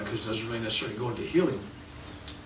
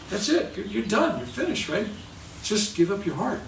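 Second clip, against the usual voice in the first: angelic voice; 3 semitones higher than usual. Retold or imitated. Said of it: "this angelic voice from the cloud".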